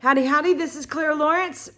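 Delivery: rough just-woke-up voice; raspy morning voice. Real, not acted. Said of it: "I got my morning voice on".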